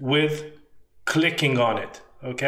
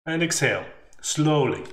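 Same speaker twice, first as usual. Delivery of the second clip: holding breath. Shown as a demonstration. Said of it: "So I'll do it again".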